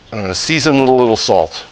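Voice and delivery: little leaned on a touch; stress on little. Shown as a demonstration. Cook stressing how much salt, little leaned on. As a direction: tip the word little a bit. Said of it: "Emphasis on the word little".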